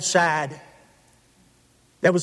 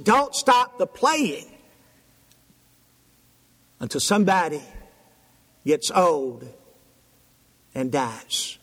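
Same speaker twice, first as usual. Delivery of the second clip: grandmother's words; slower than usual. Retold or imitated. Grandmother quoted.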